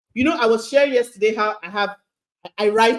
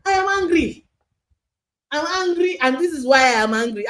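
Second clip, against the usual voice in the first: demo anger; 6 semitones higher, 3 dB louder than usual. Shown as a demonstration. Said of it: "You have to be able to say".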